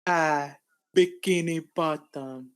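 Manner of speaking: a bad, slow French accent. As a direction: drawl it in a clumsy French accent. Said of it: "French accent going".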